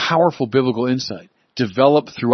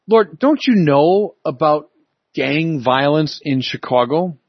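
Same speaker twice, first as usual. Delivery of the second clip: a mild plea to God, rising on don't; pleading prayer; 2 semitones higher than usual. Retold or imitated. Believers asking God about the world's evil, lightly pleading. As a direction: ask the Lord why, lightly pleading. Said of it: "We might say".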